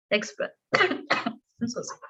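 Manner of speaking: raspy voice from a sore throat; speaking through a sore throat. Real, not acted. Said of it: "I have a sore throat right now".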